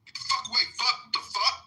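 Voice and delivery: mock the officers barking orders; mock rude officer yelling; mock agent yell. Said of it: "weren't speaking like a public servant".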